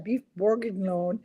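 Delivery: bourguignon read out the English way, hard g sounded; mispronounced French. Shown as a demonstration. Host admitting she can't pronounce French, anglicised bourguignon. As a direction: say bourguignon as if you never took French. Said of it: "I can't pronounce it at all".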